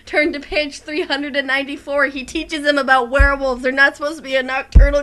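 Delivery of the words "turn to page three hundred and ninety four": a light mock Snape command; Snape impression. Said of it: "Snape's iconic line".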